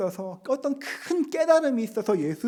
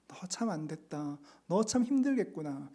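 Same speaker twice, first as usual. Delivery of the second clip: tender pity; 2 semitones lower, 6 dB quieter than usual. Acted. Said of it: "이것이 주님의 음성이었습니다".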